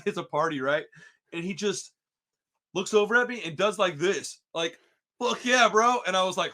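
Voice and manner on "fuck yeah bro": hyped yell. Retold or imitated. Friend's hype call before punching.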